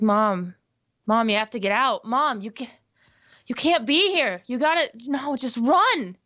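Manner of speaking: urgent, frantic shout at mother; child yelling through glass for mom to get out; desperate screaming. Acted. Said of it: "I s-, screaming at the".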